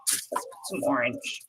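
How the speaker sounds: soft whisper to herself. Real, not acted. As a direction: whisper it, barely voiced. Repeated under her breath.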